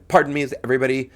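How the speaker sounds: quick patter with "Pardon" stressed on its first syllable; big stress on PAR. Shown as a demonstration. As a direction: hit "Pardon" first, run lightly through "everybody". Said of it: "You want the big stressed words".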